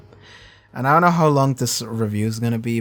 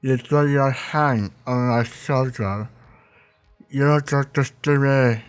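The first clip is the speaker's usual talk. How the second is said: a hint of a betrayed man pleading; mock hurt Chilton. Chilton accusing Will of shutting him out, mildly mock-hurt. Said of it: "he's like".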